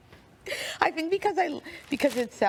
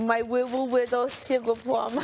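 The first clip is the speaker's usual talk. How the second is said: put-on baby talk; 2 semitones higher than usual. Mock baby-talk pet name.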